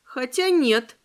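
plain reading voice

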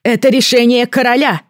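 high, loud royal announcement; loud proclamation. A narrator's reading. Queen proclaiming the king's pardon, high and loud. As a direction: proclaim it to the whole square.

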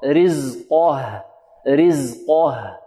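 رزقه very slow, heavy ق then a thin, light ه; long-held رزقه, falling to a light breath of ه; corrected light ha. Shown as a demonstration. Teacher correcting the mistake for students, light-ha demo. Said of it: "آه، خطأ".

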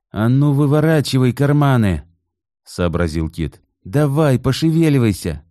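gruff order. A narrator's reading. Kit orders wife.

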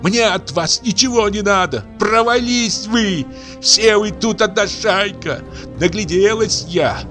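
high, tearful angry tirade; furious crying rant. Acted. Aksinya shouting at the old man through tears, furious. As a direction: scream her grievance at the family. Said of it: "продолжала Аксинья кричать".

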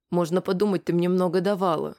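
ordinary delivery, nothing marked

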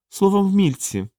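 high, gentle character voice. A narrator's reading. One of the Fiia greeting the little creatures, gentle and high. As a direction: say it high and kindly. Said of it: "лагідно промовив Фіан".

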